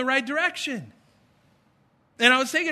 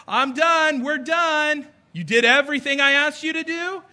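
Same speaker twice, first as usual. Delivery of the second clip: put-on kids eager, dad checking; 5 semitones higher, 4 dB louder than usual. Kids announcing they're done, dad checks.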